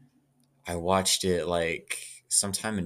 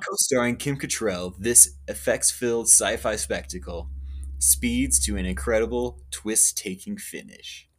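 movie trailer voice; 2 semitones higher than usual. Shown as a demonstration. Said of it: "Let me say that in the right cadence".

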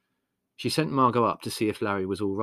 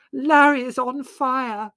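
slow, high, drawn-out scream; 10 dB louder, slower than usual. A narrator's reading. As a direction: scream the alarm word by word. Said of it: "screamed Margot in his ear".

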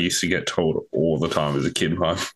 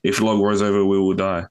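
a touch of panic, slightly louder; mild mock panic; 3 dB louder than usual. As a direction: chant it with rising alarm. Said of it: "panic in the voice".

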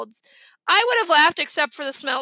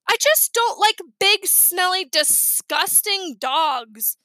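disgusted, slowing down; 5 semitones higher, slower than usual. Acted. Sheila disgusted, dragging the words.

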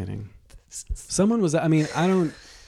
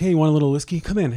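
friend offering whiskey; 5 semitones higher, 5 dB louder, faster than usual. Retold or imitated. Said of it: "My friend's like".

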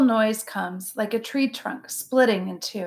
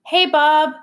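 friendly gorilla; 6 semitones higher, 7 dB louder than usual. A narrator's reading. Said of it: "says Ivan".

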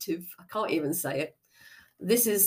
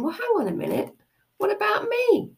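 overlooked inner part; 14 semitones higher than usual. Acted. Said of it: "There is a part of you going".

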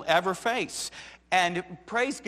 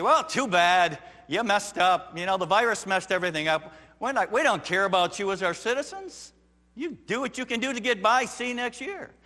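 mock callous government; 4 semitones higher, 3 dB louder than usual. An uncaring government voiced.

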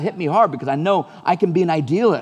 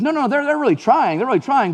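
insistent friend; 9 semitones higher than usual. Retold or imitated. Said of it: "He goes".

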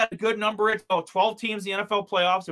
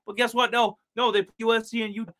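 wrestling promo. Pretend. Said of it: "I feel like I'm cutting a promo right now".

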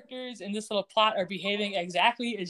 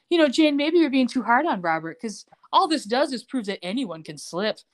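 playing it smooth, emphatic at first then easing; smooth manipulation; 3 semitones higher, 4 dB louder than usual. Schemer reassures wife over his orange juice, smooth. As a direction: casually plant an idea. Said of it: "plays it as smooth as can be".

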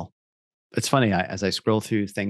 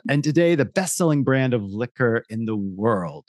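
ad voiceover. Acted. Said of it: "I'll read that again".

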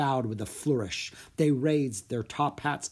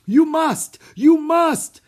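very high, loud wail; desperate plea; 12 dB louder, much slower than usual. A narrator's reading. Theater manager begs the children to perform, wailing. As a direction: beg at full voice.

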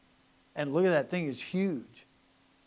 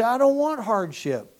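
mock whiny complaint; 8 semitones higher, 8 dB louder than usual. Mocking quoted complainer.

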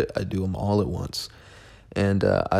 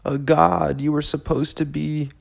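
mock self-scolding; 6 semitones higher than usual. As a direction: scold yourself in a raised, sneering pitch. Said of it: "And I'm like".

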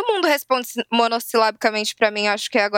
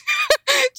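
high laugh. Real, not acted. Laughs at her own joke.

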